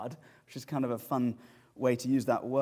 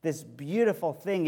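slow anguished protest; 3 semitones higher, 5 dB louder, slower than usual. Retold or imitated. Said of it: "It agonizes our souls".

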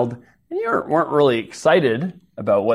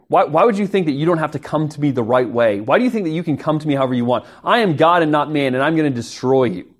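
angry god; 3 semitones higher, faster than usual. Retold or imitated. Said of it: "at least other gods would say".

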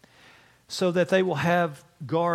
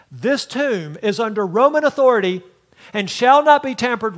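grand rich voice; 5 semitones higher, 8 dB louder than usual. Retold or imitated. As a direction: herald reading a royal edict. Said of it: "It might go like this".

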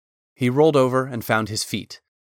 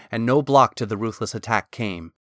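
usual speaking voice

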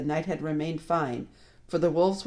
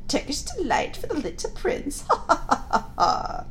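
high jeering dwarf laugh; mocking dwarf cackle; 10 semitones higher than usual. A narrator's reading. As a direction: jeer at him and cackle.

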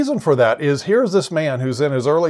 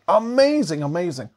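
marveling; 3 semitones higher than usual. Real, not acted. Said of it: "preacher marvels".

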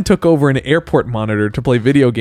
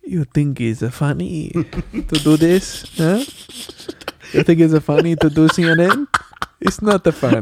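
a loose try at a Seinfeld whine; 4 semitones higher than usual. Pretend. Doing a Seinfeld impression on request, mock indignant. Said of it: "I could do a Seinfeld impression".

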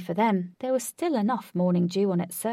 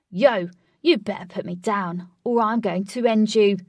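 angry threat; 8 dB louder than usual. Acted. Threatening while held overhead.

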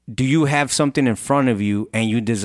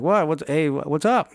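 stumbling, higher-pitched puzzled reply; mock confusion; 6 semitones higher than usual. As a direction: imitate being caught off guard, rising into the question. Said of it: "looks up and just confused".

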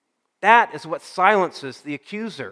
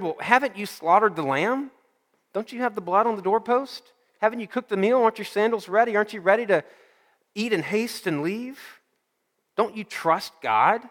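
higher pitched, pressing questions one after another; questioning friend; 5 semitones higher than usual. Acted. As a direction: nudge him with challenging questions, pitched up.

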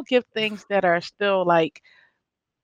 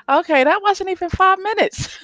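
disbelief at herself; 10 semitones higher than usual. Retold or imitated. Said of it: "I'm like".

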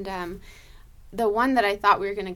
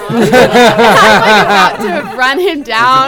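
laughing through it; 20 dB louder, slower than usual. Real, not acted. Laughing while telling the chaos.

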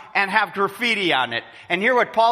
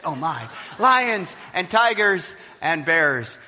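mock fright. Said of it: "this mentality of lions and tigers and bears".

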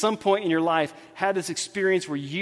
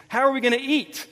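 mock-panicked wail, pitched up; freaking out; 5 semitones higher than usual. Worried disciples with one loaf, mock freak-out. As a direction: fret like a stressed-out disciple. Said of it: "they're freaking out".

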